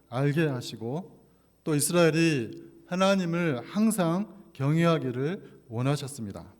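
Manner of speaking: ordinary talk, nothing marked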